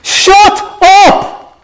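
shouted Black Country command, very high; forceful Black Country shout from God; Black Country accent. Acted. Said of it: "That is the force of it".

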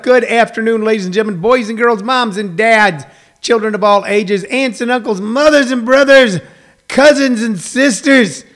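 booming showman announcer voice; ringmaster. Acted. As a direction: welcome them like a circus ringmaster. Circus-style welcome to audience.

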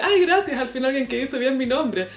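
high, grateful mock gush; light imitation of a thankful singer; gushing singer. Scene: a singer thanking a fan for her name, gushing. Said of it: "y la cantante".

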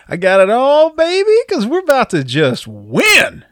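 high, drawn-out cocky boast; cocky hero. Retold or imitated. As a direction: crow it like a hammy hero, way up high. Mock cocky hero line.

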